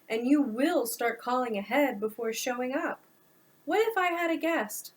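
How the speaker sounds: exasperated son scolding his mother; an irritated adult son laying down the law; frustrated. Acted. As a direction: push back hard, fed up at the early hour. Noah confronts mother at 4am.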